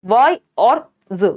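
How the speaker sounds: "वाई और ज" pulled slowly apart into two sounds; syllable by syllable. Shown as a demonstration. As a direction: say "वाई और ज" slowly, the final z on its own. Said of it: "ये दो syllable यहाँ पे भी". ("वाई और ज" को धीरे-धीरे अलग सिलेबल में तोड़कर)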